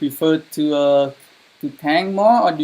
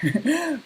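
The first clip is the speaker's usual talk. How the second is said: disbelieving laugh; 12 semitones higher, 4 dB quieter than usual. Real, not acted. Laughs at falling far behind.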